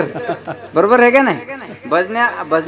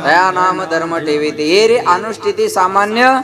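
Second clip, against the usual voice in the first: scripture recitation; 2 semitones higher than usual. Acted. Recites scriptural verses to the congregation.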